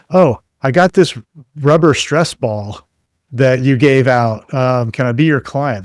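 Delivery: mock eager customer. Pretend customer back at the trade show booth, mock eager. Imagined customer returning with a giveaway.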